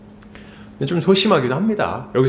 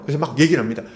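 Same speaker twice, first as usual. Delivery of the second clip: normal talking voice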